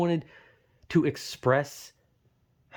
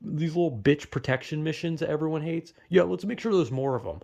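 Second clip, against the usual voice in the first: mock game developer; 3 semitones higher than usual. Gamer imitating designers requesting hated missions, mocking. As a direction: imitate an eager designer proposing more misery. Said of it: "They're like".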